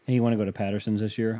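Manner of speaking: quick, offhand suggestion; casual, in passing. Retold or imitated. Asking his girlfriend about the fruit farm, casual and in passing. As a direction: toss it out casually as you pass. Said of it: "I said this in passing".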